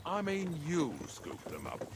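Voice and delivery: "you" picked out with emphasis; stress on YOU. Acted. Boss hands the scooping to the helper, stress on "you". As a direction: lean on "you" to correct who does it.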